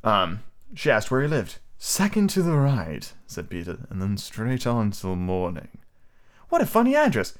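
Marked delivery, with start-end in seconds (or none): 1.8-5.7 a hint of smooth villain, slow; Voldemort voice. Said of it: "make Peter sound like Voldemort". 6.5-7.4 put-on high girl voice.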